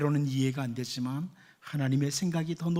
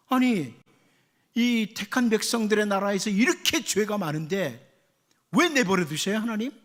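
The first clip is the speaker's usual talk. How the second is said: arguing with God; 2 semitones higher than usual. Retold or imitated. Preacher voicing Habakkuk questioning God, mildly indignant. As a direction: press God with a mock complaint. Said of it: "이렇게 따지듯이 말을 해요".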